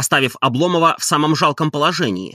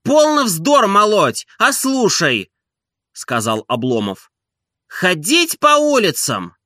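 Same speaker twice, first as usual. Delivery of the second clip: irritated master; 7 semitones higher than usual. A narrator's reading. Master snapping at servant.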